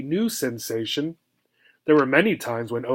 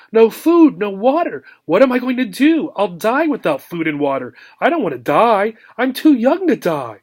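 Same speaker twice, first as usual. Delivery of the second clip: high, loud, frantic pleading; a frightened pet sure she will die; panicked wail; 6 semitones higher, 3 dB louder than usual. Acted. Hamster left alone without food, frantic and high.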